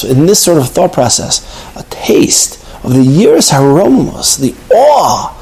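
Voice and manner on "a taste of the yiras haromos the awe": reverent whisper. Real, not acted. Hushed reverence.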